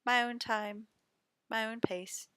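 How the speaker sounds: playful cat impression taking its time. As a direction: voice the cat, unhurried and content. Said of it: "It's like".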